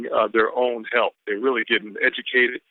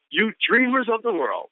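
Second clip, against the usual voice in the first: hyped quote reading; 4 semitones higher, slower than usual. Real, not acted.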